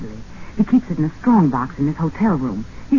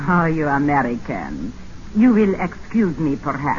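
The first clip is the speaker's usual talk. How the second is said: fake Russian accent; 4 semitones lower than usual. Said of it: "What happened to your Russian accent?".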